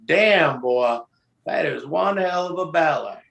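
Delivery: son voicing his dad's Southern praise backstage, lightly imitated; Southern gentleman. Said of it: "Southern gentlemanly way".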